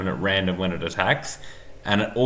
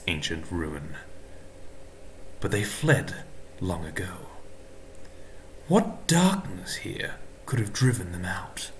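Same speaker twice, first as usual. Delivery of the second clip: demon voice; 3 semitones lower, 7 dB quieter than usual. Acted. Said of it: "I'll get my demon voice on".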